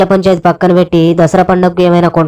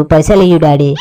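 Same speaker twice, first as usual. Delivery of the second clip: sweet coaxing; 2 semitones lower than usual. Acted. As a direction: coax the money out of him sweetly. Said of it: "మా మంచి daddy కదా". (ముద్దుగా బతిమాలుతూ)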